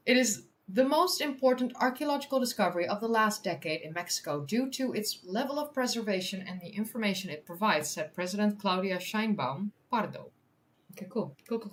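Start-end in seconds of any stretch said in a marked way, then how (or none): 0.1-10.3 measured news-article reading; article read-aloud. Real, not acted. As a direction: read it out clearly for an audience. Reads quote from article.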